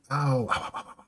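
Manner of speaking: high pained ow ow; pained yelps. Acted. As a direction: yelp like you're on fire. Ninja rolling in flames.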